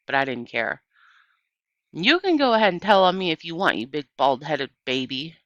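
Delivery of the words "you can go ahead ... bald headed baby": loud, fast angry yell; girl yelling at the boys; yelling insult. Acted. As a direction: fling the insult at him. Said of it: "yelling at Dunlap and Stevie".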